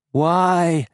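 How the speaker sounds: high, loud alien plea; wounded alien question; plaintive creature. Acted. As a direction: ask why like a dying beast. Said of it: "it asked plaintively".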